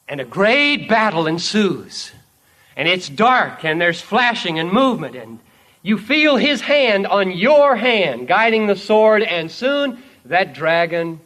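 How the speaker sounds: dramatic preaching. Acted. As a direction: build the battle scene with force. Battle told at preaching force.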